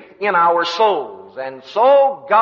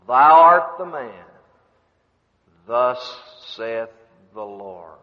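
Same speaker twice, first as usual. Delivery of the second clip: prophet's pronouncement with weighty pauses; grave, measured judgment sinking in pitch; solemn accusation; 7 semitones lower, slower than usual. Acted. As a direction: strike hard, then drop low and hushed. Acted prophet confronting the guilty king.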